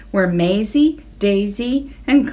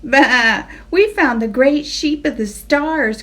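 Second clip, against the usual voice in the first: triumphant bah, louder; triumphant cry; 4 semitones higher, 4 dB louder than usual. Acted. Sheep tell Abigail, triumphant cry. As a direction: crow about the find. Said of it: "cried Maisie, Daisy, and Clementine triumphantly".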